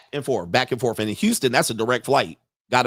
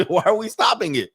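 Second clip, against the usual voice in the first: asked through a laugh, higher; laughing question; 8 semitones higher than usual. Real, not acted. Host laughing at the woman's plan, high and amused. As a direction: laugh while you ask it.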